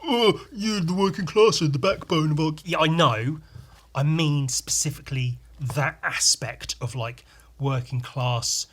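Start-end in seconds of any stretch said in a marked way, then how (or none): 0.0-2.5 high, indignant mock protester; lightly voiced offended objector. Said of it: "don't get all like".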